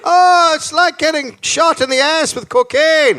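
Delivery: high-pitched thrilled outburst; mock exhilaration. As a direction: gush as if jolted with energy.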